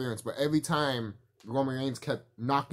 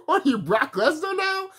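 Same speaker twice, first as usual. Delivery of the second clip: high, squeezed-out words through laughter; cracking up while talking; laughing hard; 4 dB louder than usual. Real, not acted. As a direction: barely get it out for laughing. Jokes through his own laughter.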